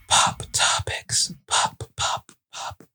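breathy whispered segment jingle. Acted. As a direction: whisper it like a show sting. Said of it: "most awkward pop topic intro ever".

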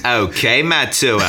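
a half-hearted Australian twang on Okay Matua; mock Australian accent. Quizzing his guest in a playful Australian accent. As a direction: try an Australian voice, laughing a little. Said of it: "in my best Australian accent".

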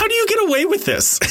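high, laughing quote of disbelief. Retold or imitated. Retelling the card mix-up, laughing and high. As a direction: squeak it out through a laugh. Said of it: "I was like".

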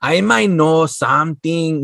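low, slow, lightly voiced bartender; guarded bartender. Bartender answering the stranger, low slow imitation.

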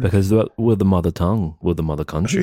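playful fake British accent; mock British accent. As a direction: put on a British accent while insisting it's normal.

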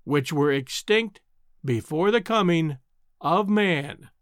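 slow and deliberate, each phrase set apart. Acted. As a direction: repeat it slowly, pointedly. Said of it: "raising his voice, repeated slowly the words".

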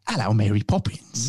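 put-on southern English accent; lightly mocked Dick Van Dyke cockney; bad southern English. Teasing co-host's Mary Poppins southern accent, bad southern English. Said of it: "put any southern accent on".

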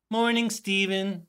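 slow, drawn-out dreamy greeting; awed greeting. Retold or imitated. Cast greeting the dancer slowly in awe. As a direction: greet him slowly, starstruck.

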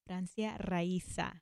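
Raisa with a rolled Spanish R; Spanish pronunciation. Real, not acted. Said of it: "A lot of people can't say it".

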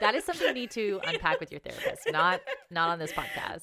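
laughing through a playful scolding; amused teasing. Real, not acted. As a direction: tease your friend while laughing. Teasing co-host about actor crush.

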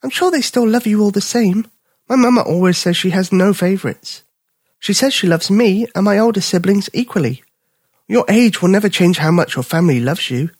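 high, reassuring cub voice; comforting young bear. Acted. Bipper reassuring the little dog, high kind cub voice. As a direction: cheer up your new friend.

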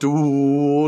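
loud drawn-out ghostly ooh; spooky ooh. Pretend. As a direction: moan it like a cheap ghost. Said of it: "like that".

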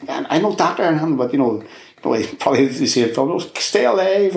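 retold shout rising to a high 'Stay alive'; urgent yell at a friend in the hospital bed; shouting at mate. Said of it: "shouting at him".

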